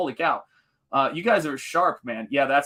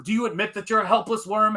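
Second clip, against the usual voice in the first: high, mock stern kung fu master; a raised, hammed-up Pai Mei taunt; 8 semitones higher than usual. Pai Mei taunting Beatrix in training, high mock master voice. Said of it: "and he goes".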